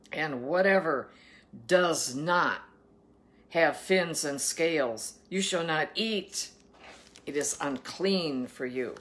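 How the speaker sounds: slow, emphatic Bible reading; scripture reading. Acted. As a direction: proclaim the food laws, weighting each word. Reads scripture aloud.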